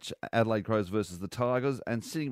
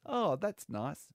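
slow, higher-pitched politician imitation; Christopher Pine; 6 semitones higher, much slower than usual. Politician hearing of the radio impersonation, slow mock approval. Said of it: "He goes".

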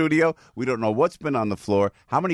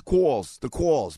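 New Jersey vowel in "calls"; Jersey accent; much slower than usual. Real, not acted. Host moving on to callers, Jersey accent. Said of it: "My Jersey accent".

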